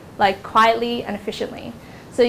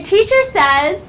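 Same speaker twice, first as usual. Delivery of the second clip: game-leader teacher; 9 semitones higher, 5 dB louder, slower than usual. Shown as a demonstration. Demonstrating game command to class.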